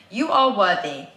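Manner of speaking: slow, firm affirmation; affirmation read aloud. Real, not acted. Reads written affirmation back slowly.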